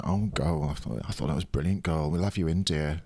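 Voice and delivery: put-on lightly camp "oh girl", quick on "I thought that was brilliant"; a hint of the camp old drag queen, fast; camp mentor voice. Guest imitates the drag mentor who hired him, lightly camp. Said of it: "he talks like this".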